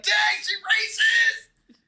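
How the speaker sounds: high, cracking yelp of disbelief; stunned shriek; shocked shout. Retold or imitated. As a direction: blurt it out in outrage, voice breaking. Shocked reaction while recapping the movie.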